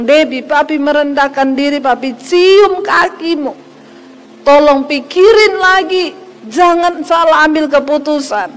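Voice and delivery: pleading father. Retold or imitated. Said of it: "papi saya berlutut di bawah kaki saya".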